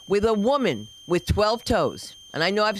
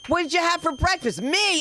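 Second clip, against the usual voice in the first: bawdy punchline; 6 semitones higher than usual. Acted.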